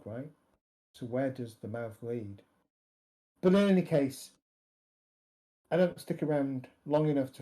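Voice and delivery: understated, matter-of-fact character voice; matter-of-fact, slightly deprecating. Acted. Character explaining his only worry about the plan, matter-of-fact. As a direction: state it plainly with a touch of deprecation. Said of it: "a little bit of deprecation in his voice, but mostly matter-of-factly".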